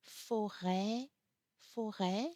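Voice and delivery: Forêt ending on an open "ê", rising; Forêt said twice, last vowel wide like "eh"; circumflex E. Shown as a demonstration. French teacher demonstrating circumflex on E, forêt with open ê. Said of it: "pronunciation is different with the E".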